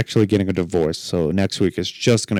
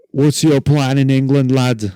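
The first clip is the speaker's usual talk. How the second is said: Scottish border guard; 4 semitones higher, 4 dB louder than usual. Retold or imitated. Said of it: "apparently the guy was Scottish".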